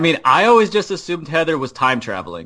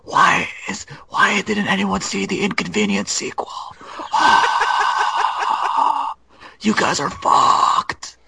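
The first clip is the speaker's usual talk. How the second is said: a breathy whispered hiss of a talking car; bad Pete the Prius; 3 semitones higher than usual. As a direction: play a whiny cartoon car, half whispered. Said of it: "Pete the Prius".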